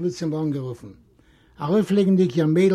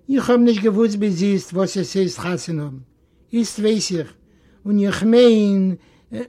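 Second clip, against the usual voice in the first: lightly voiced girl, raised pitch, pleading; earnest young Masche; 3 semitones higher, 3 dB louder than usual. Masche confides doubts to her uncle, earnest pleading.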